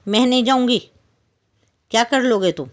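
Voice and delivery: high, loud, stubborn refusal; a little fly shouting back in defiance; angry defiant fly. Acted. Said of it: "गुस्सा आया उसे।". (गुस्से में ज़िद्दी मक्खी, ऊँची और तेज़ आवाज़)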